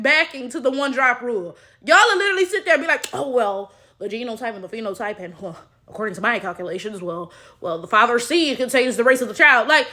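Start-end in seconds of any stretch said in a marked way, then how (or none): 3.1-9.7 mock know-it-all. Mocking people who defend the one drop rule, low smug voice. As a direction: play a smug pseudo-scientist, dropped low and fast.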